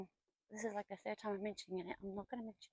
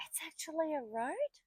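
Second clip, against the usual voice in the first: surprised whisper; 7 semitones higher, 7 dB louder than usual. Real, not acted. Surprised at a car.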